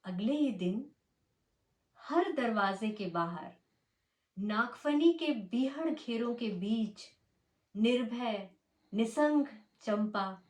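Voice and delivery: measured Hindi poetry reading with swinging intonation; poem recitation. Acted. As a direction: recite it line by line, leaning on key words, with pauses. (लय और ठहराव के साथ कविता पाठ)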